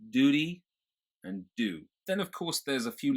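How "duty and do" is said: "tuition", "duty" without y sound, higher; General American accent. Shown as a demonstration. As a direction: drop the y sound. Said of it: "you would not have that y sound".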